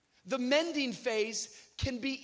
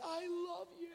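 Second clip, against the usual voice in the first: high, laughing shout of love; mock dramatic farewell; 7 semitones higher, 9 dB quieter than usual. Friend watching him fall, hammed-up high farewell shout. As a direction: ham up the goodbye as he slips away. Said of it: "he's like".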